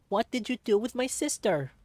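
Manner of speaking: high, loud, furious demand; furious shout. Acted. Child shouting at kidnappers about her sister, furious.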